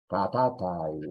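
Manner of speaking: katatai said syllable by syllable; Quechua katatai. Shown as a demonstration. Teacher gives the word for trembling to repeat, careful. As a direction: model katatai slowly. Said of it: "y temblar".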